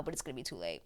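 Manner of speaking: low, soft aside trailing away; sinking under the breath; hushed dread. Retold or imitated. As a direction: drop it low and very quiet. Dreads outcome, then repeats it.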